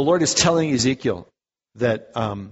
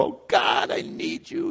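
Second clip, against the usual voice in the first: soft whispered plea; hushed heartfelt plea; whispered cry to God; 3 semitones lower, 3 dB quieter, slower than usual. Retold or imitated. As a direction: breathe it like a heartfelt prayer. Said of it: "just crying out from our heart".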